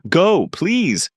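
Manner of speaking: high pleading cry; urgent plea. A narrator's reading. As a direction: beg him to go.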